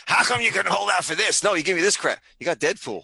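Ryan Reynolds. Retold or imitated. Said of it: "sitting on the phone with his agent going".

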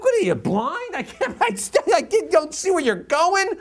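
high, loud, laughing indignant yell; mock furious yell. Knocked onto the pavement, yelling at the stranger in mock fury. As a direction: snap at whoever knocked you down. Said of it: "You're furious".

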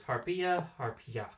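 Harpia harpia, closing on a "ya" sound; careful scientific name, harpia as "har-pya"; Greek-style pronunciation. Shown as a demonstration. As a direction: sound out Harpia harpia, adding the "ja" ending. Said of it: "I'm trying to include the ja".

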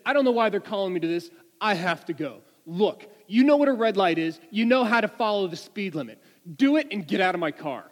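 loud, impatient mock orders; exasperated trooper. Trooper called away sends the driver off, exasperated. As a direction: imitate an irritated officer dismissing a driver in a rush. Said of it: "he rolls his eyes".

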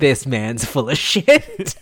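laughing scoff. Retold or imitated. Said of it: "I was like".

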